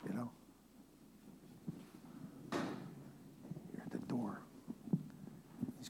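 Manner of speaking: slow, breathy whisper. Real, not acted. Preacher whispering to the congregation about waiting at the door. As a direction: lean in and whisper it slowly.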